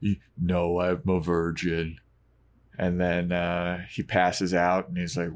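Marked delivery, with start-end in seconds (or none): 0.0-2.0 stammering. Retold or imitated. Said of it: "he stammers".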